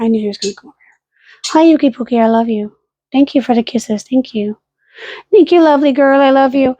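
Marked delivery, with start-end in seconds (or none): 1.5-6.7 sweet doting pet voice. Real, not acted. Cooing to dog.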